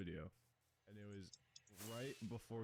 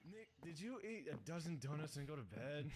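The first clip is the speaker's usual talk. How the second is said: tired voice; 2 semitones higher, 3 dB quieter than usual. Retold or imitated. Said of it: "like, tired voice".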